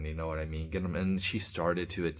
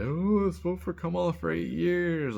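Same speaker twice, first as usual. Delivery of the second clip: much higher, louder mock celebrity cheer; mocking a rapper; 12 semitones higher, 4 dB louder than usual. Vlogger mocking a celebrity's rally speech, high loud mockery. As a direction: ham up a ditzy rally cheer. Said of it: "she's like".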